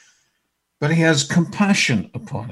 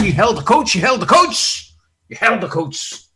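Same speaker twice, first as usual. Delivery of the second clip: accusing; 6 semitones higher, 4 dB louder than usual. Pretend. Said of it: "He didn't say".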